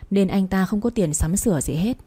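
usual speaking voice

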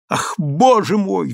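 exclaiming. Acted. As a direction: wring out "Ах, боже мой!" in alarm. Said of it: "вскричала султанша".

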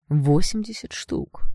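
slow, seething stress on восемьдесят; cold seething. Acted. Blond seethes at the girl over the price, slow and cold. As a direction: grind out восемьдесят штук slowly through rage. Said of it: "продолжал шипеть блондин".

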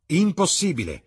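high, loud outburst; firm refusal. A narrator's reading. Dorian refusing Basil, high and loud. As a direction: slam the door on the idea.

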